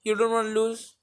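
high, mocking shrug of a voice; mock Liverpool voice. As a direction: play it like a smug team that can't be bothered. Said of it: "And Liverpool are like".

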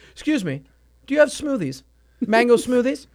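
mock bougie voice. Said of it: "act like a bougie bastard".

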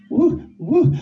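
high, teasing woo; playful high woo. Pretend. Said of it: "blowing in your ear".

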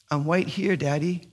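lightly voiced small child, unbothered; hint of a toddler's w for r; little boy's answer. Son answering searching dad, lightly childlike.

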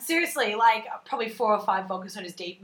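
fired up, loud and animated; too loud. Real, not acted. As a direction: get carried away and talk too loud. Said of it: "I might be talking too loud".

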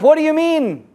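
high-pitched incredulous call; acted yell up. Man below questions the man on the bridge, yelling up. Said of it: "The man yells up".

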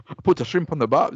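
unconvincing put-on Australian accent; bad Australian accent. Shown as a demonstration. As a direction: wobbly attempt at Australian. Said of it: "I don't know what that is".

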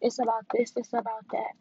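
a hint of a gushy self-care crowd; mocking everybody. Mimicking people who preach self-care, lightly mocking. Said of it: "everybody used to always say".

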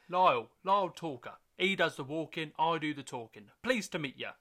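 high, loud, brash agent pitch; fast-talking agent introducing himself; Lyle the agent. Acted. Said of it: "I'm gonna be Pep and Lyle".

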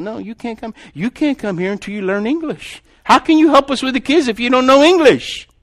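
building to a loud, high-pitched protest; exasperated refusal. Retold or imitated. Director turns away a woman without English, exasperated and rising. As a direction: refuse firmly, voice climbing to a shout.

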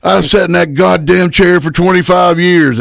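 high, indignant rant; gruff old-timer. Retold or imitated. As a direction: claim the chair as the veteran, pitched high. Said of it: "He goes".

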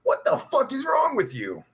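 hushed, disbelieving whisper; shocked whisper. Real, not acted. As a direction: breathe it out in shock. Reacting to chat about step kids.

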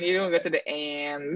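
"understand" with a twanged "and"; American twang. Shown as a demonstration. Friend teasing her about code switching, American twang. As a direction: stretch the end of "understand" American-style. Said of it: "I don't twang like that".

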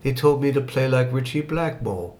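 put-on "They told me to play like Richie Blackmore" in a mild English accent; light English accent. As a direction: lightly imitate a guitarist's English accent, amused. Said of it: "hearing it in his, uh, in his accent, where he goes".

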